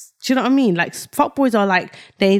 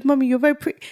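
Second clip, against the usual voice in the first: higher, lightly voiced small boy; little baby voice; 5 semitones higher, much faster than usual. Son praising his mum, light baby voice. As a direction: imitate a sweet little child. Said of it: "his little baby voice".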